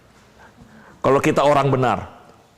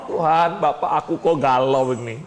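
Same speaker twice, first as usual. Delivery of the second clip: troubled prayer. Retold or imitated.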